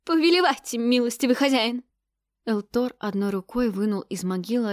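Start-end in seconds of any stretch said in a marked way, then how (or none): 0.0-1.8 grovelling. A narrator's reading. Prefect grovels before god.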